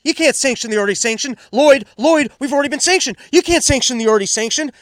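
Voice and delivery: high, loud goofy movie voice; Dumb and Dumber quote. Retold or imitated. Host quoting Dumb and Dumber, high goofy shout. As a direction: ham up the dimwit line from the film. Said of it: "right out of fucking Dumb and Dumber".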